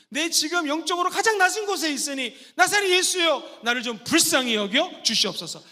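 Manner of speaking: loud prayerful plea; pleading prayer. Shown as a demonstration. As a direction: beg from the lowest place. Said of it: "가장 낮은 곳에 임하신 예수님".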